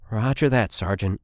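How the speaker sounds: a nervous soldier trying to sound brave; shaky voice. Acted. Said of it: "His voice was shaky".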